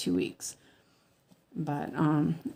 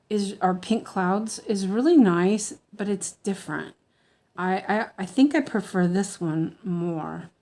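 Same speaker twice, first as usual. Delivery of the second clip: lisping. Real, not acted. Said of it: "I feel very lispy tonight".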